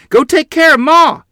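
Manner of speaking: high, urgent shout. A narrator's reading. Child shouts to sister to tend their mother. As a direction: shout the order at top pitch. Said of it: "I shouted to Lottie".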